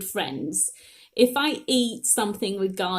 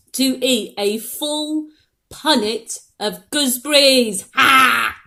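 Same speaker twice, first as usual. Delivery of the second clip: crying laugh; 2 semitones higher, 6 dB louder than usual. Real, not acted. After garlic, crying laugh.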